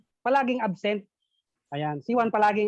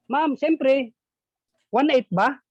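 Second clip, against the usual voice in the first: higher, louder eager answer; eager pupil; 7 semitones higher, 5 dB louder, slower than usual. Retold or imitated. Juan answering the teacher, louder eager guess. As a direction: blurt the answer.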